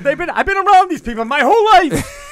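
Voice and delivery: put-on loud, high New York Jewish mother accent; Jewish Alta Cocker accent. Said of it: "my Jewish Alta Cocker accent".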